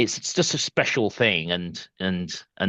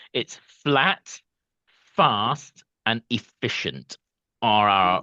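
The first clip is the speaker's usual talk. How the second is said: slowed way down, very slow delivery; 3 semitones higher than usual. Repeating agreed wording after a past caption mix-up, said really slowly. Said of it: "I'm going to say this really slowly".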